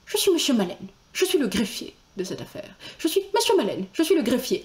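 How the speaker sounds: lightly voiced jerky, closed-mouth clerk; choppy, tight-lipped clerk, rising in pitch; Monsieur Maleine. Clerk introducing himself, slightly jerky tight-mouthed voice. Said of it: "saccadé, plutôt bouche fermée".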